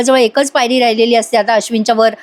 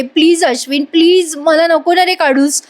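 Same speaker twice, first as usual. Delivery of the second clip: retold pleading cry; 5 semitones higher than usual. Priya pleads with Ashwin not to throw her out, mock crying out. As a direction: imitate crying out in appeal. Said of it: "Priya मोठ्याने ओरडते".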